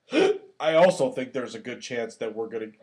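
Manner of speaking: hiccup cutting into the words. Real, not acted. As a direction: talk through a sudden hiccup. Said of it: "excuse me, beer's kicking in".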